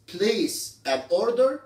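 "place an order" drawn out very slowly, word by word; slow pronunciation demo. Shown as a demonstration. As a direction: stretch out "place an order" for the class. ("place an order" ببطء شديد كلمة كلمة)

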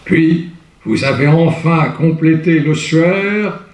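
grave theatrical verse, fading to a hush; declaimed Hugo verse. Shown as a demonstration. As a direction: intone the elegy like a lament. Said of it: "Là, c'est du Victor Hugo".

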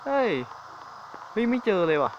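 startled, nervous outburst; scared exclaim. Real, not acted. Can't find monster, scared.

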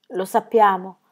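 ordinary delivery, nothing marked

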